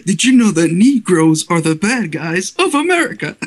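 imitated character line broken by laughter; Doctor Rabbit. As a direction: quote the cartoon character while cracking up. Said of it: "like, he's like".

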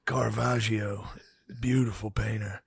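hushed whisper of an art lover. Retold or imitated. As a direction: breathe it like a gallery whisper. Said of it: "You'd be like".

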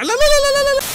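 high, loud panicked cries of no. Real, not acted. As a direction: yell no as the bike goes over. Panicked crash, bike flying.

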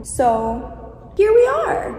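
slow, high, drawn-out sigh of defeat; resigned. Real, not acted. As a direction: drag it out, resigned. Resigned after forgotten card.

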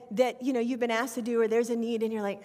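usual speaking voice

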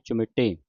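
ਚੁਮਟੇ as "chu-maṭ-ṭe", doubled ṭ; tight adhak. Shown as a demonstration. Teacher spells it out, ਚੁਮਟੇ with tight double ṭ. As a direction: hold the ṭ of ਚੁਮਟੇ before releasing. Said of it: "ਉੱਤੇ ਅਧਿਕ ਲੱਗਾ".

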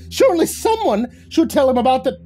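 very high, loud cackling taunt. A narrator's reading. Leprechaun taunting the newcomer, high and cackling. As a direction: cackle it with glee. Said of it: "the crackling leprechaun".

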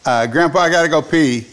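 mildly mock loud kid announcing he needs the bathroom; retold loud blurt. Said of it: "he would very loudly say".

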